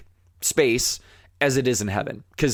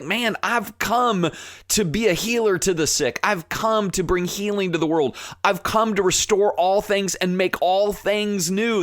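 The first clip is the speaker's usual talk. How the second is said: voicing Jesus; 6 semitones higher than usual. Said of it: "he's just like".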